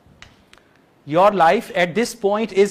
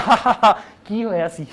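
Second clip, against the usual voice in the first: mock fake laugh; much faster than usual. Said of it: "Not like that".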